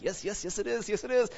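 rising, eager mock agreement; a hammed-up eager giving in; eager yes. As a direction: give in eagerly to temptation. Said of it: "And you're like".

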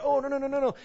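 a hammed-up frightened refusal; mock panic. Believer trying to escape the trial, mock panicked.

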